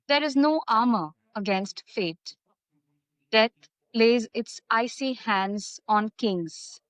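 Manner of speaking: deliberate verse reading, pausing after each phrase; poem recitation. Acted.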